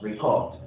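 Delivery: "Record" as a verb, ri-KORD; second-syllable stress. Shown as a demonstration. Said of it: "You can notice the stress change".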